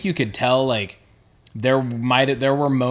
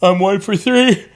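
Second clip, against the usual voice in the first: excited; 8 semitones higher, 7 dB louder than usual. Real, not acted. Bragging about score.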